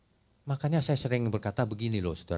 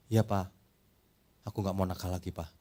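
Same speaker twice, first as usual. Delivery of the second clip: small, softer sorry-dad voice; contrite child; 7 semitones lower, 8 dB quieter than usual. Retold or imitated. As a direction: fade into a meek apology. Scolded child answers father.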